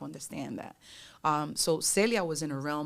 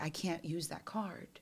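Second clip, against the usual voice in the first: whispered realisation to oneself; slow, hushed aside; private thought; 7 dB quieter than usual. Acted. Her private thought, retold.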